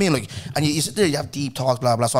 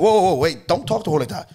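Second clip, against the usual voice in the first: angry intervention; 5 semitones higher than usual. Retold or imitated. Manager telling a customer off for insulting colleague, angry. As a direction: cut in to defend a colleague, mildly acted. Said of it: "the anger in me".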